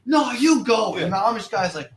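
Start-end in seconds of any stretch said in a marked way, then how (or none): 0.0-0.9 put-on high, insistent old lady.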